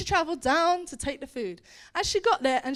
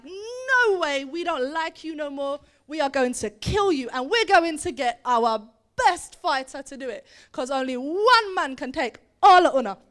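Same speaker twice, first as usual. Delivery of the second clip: hostile war challenge; 3 dB louder than usual. Acted. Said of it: "this half of the room was like".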